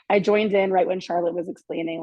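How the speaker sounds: losing her voice, whispered; barely any voice left. Real, not acted. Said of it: "I lost my voice".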